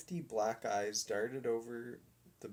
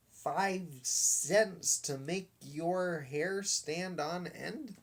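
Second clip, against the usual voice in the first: taunting showman; 5 semitones higher than usual. A narrator's reading.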